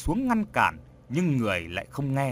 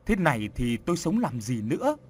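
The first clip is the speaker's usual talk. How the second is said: sobbing; 2 semitones higher than usual. Acted. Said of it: "bà Dạng nức nở nói".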